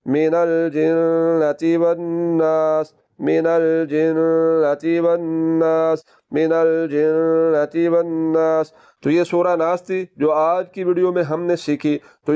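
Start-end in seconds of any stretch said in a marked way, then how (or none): 0.1-8.7 slow, even sustained chant; Quran recitation. Shown as a demonstration. Teacher reciting the full ayat for students, slow chanted recitation. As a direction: recite with long vowels and held nasal n. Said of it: "पूरी आयत किस तरह हो जाएगी".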